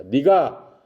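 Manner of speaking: acted scolding, pitch rising midway; mild mock telling-off; rebuking. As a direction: rebuke them with mounting force. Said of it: "욕을 한 거야".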